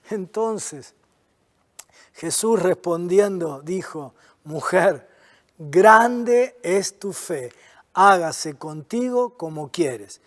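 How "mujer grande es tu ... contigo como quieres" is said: lower, softer, very slow and gentle; tender. Acted. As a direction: speak it gently like a blessing. Jesus answers the woman tenderly.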